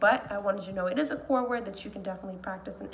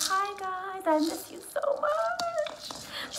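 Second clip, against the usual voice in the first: whisper; 9 semitones higher, much slower than usual. Real, not acted. Greeting students, whispered.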